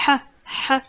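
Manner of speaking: ha with a strong breathy H. Shown as a demonstration. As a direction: push the air hard on ha. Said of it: "H qui est prononcé assez fort".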